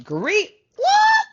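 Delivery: What? shooting way up, loud; mock-shocked yelp; high, loud disbelief; surprised exclamation. Real, not acted. Reacting to a card.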